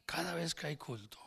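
soft, breathy aside; whispered remark. Real, not acted. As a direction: say it in a hushed whisper. Soft remark about brother.

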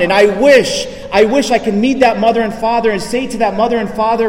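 earnest retold anguish, halting and repeating; imitating tearful confession. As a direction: plead like a remorseful prisoner begging forgiveness. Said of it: "he's just crying and he's saying".

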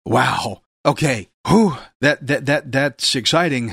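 breathless after the reading; puffing, catching breath. Real, not acted. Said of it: "let me catch my breath".

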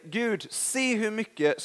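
slow, drawn-out show-off prayer; imitating a showy prayer to God, slowly; mock boastful prayer. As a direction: pray it like showing off. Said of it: "Att vi liksom säger".

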